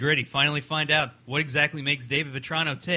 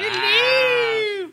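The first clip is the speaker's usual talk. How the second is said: high, loud shouted hello; 6 dB louder than usual. Shown as a demonstration.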